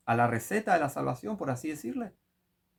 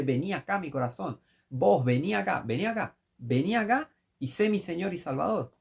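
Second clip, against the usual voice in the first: mock arrogant summoning, rising higher; mocking bossy command; 4 semitones higher than usual. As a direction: order Christ around like a servant, mockingly. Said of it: "le dijiste".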